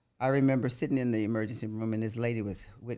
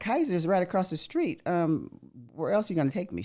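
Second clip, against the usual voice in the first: retold exasperation; 6 semitones higher than usual. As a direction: point out the obvious in disbelief. Retold argument with daughter.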